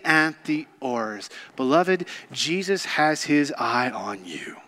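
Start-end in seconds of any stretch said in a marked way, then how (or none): 2.3-4.6 soft whisper, lower; hushed reassurance. Real, not acted. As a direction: whisper it close and tender. Intimate aside in sermon.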